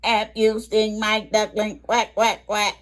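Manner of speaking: a mild storybook duck voice; Mama Duck. Acted. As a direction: call out for her lost duckling. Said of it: "And she's asking".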